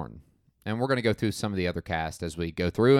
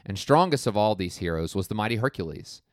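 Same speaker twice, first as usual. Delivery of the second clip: epic fantasy narrator. Retold or imitated. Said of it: "The narrator, played by Charlton Heston".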